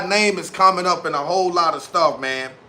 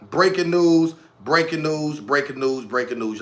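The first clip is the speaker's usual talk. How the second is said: catchphrase trailing into an echo; fading echo; 3 semitones lower than usual. Pretend. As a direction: repeat it like an echo dying away.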